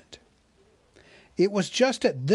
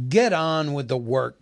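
growled. Acted. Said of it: "growled the butler".

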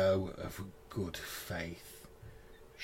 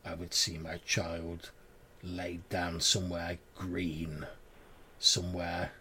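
grieving crone voice. Acted. Crone continues her plea.

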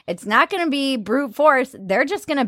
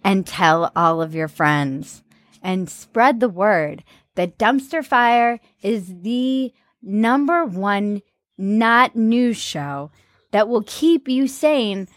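mock promo read; 3 semitones lower, slower than usual. Hammed-up show promo.

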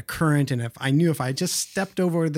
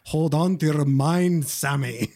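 mild Scottish brogue; 2 semitones higher, slower than usual. Retold or imitated. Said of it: "In his brogue".

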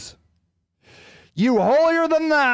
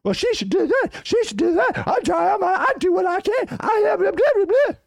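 higher, mocking sanctimonious whine; hammed-up holier-than-thou voice; mock judgmental Christian; 8 semitones higher than usual. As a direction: sneer it like a smug churchgoer. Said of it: "all you do is judge those pregnant teen moms".

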